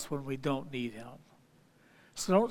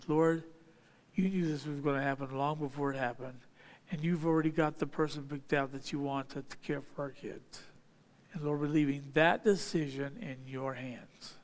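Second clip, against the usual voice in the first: lower, softer prayerful address; modeled prayer; 3 semitones lower, 6 dB quieter than usual. Acted. Turning to God over the missing teacher, modeled prayer. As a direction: pray it quietly and evenly to God.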